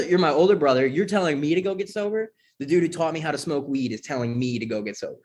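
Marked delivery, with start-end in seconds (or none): 0.1-3.7 higher-pitched mock disbelief; amused, retold incredulity; incredulous retort. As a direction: throw it back at an older brother. Incredulous retort to alcoholic brother.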